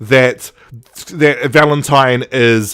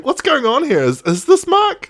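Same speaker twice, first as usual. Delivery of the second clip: much higher, laughing disbelief; amazed disbelief; 11 semitones higher than usual. Real, not acted. Fan amazed that Mark wrote a good act, laughing. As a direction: marvel half laughing. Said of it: "And I'm just like".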